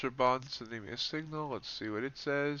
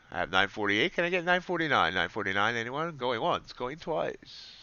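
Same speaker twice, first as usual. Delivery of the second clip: fast auctioneer patter calling bids. Pretend. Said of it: "Sound like an auctioneer".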